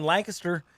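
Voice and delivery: "Lancaster" said as LANK-uh-ster; "Lancaster" quick-middled, LANK-uh-ster; reduced pronunciation. Shown as a demonstration. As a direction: say "Lancaster" with a swallowed middle syllable. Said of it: "can't be up there going".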